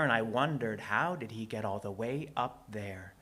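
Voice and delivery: theatrical rhyming storyteller; measured phrases with punched key words and dramatic pauses; story narration. A narrator's reading. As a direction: perform it like spoken-word storytelling.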